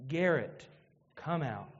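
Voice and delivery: imagine hearing your own name called, tender; the preacher imagining his own resurrection, hushed; hushed hope. Retold or imitated. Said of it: "I want to hear".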